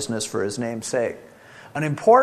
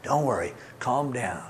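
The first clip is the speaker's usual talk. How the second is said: soothing wife; 4 semitones lower, 6 dB quieter, faster than usual. Retold or imitated. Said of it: "she's the one who says".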